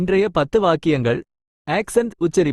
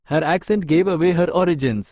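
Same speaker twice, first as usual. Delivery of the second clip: each word spaced out slowly for learners; slow dictation; much slower than usual. Shown as a demonstration. Teacher reading an English example sentence to Tamil learners, very slow and clear.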